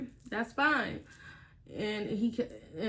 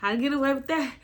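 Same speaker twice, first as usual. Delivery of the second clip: put-on threatening boyfriend; 6 dB louder, faster than usual. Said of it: "He said".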